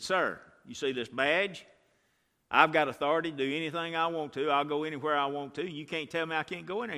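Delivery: cocky agent. Retold or imitated.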